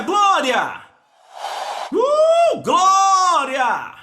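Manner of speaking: noisy man's whooping praise shouts; imitated boisterous shouting; Abraão. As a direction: whoop high, then cry glória long and loud. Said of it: "era um cara barulhento".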